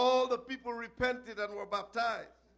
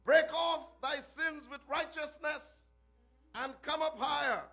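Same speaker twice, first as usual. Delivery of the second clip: refrain; 4 semitones higher than usual. Acted. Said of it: "break forth in the same refrain".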